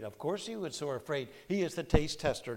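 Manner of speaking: normal talking voice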